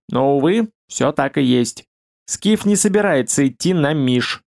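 dark, bubbling, gurgling voice; gloomy gurgling voice. Acted. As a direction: gurgle it out gloomily like a swamp creature. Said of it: "мрачно булькающим голосом".

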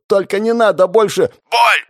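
a victim crying out before the spell hits again; terrified begging. A narrator's reading. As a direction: beg frantically. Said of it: "кричал он дрожащим голосом".

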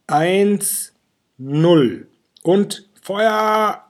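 high, loud witch countdown; shouted countdown. A narrator's reading. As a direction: scream down the count to zero.

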